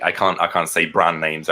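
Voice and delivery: ordinary delivery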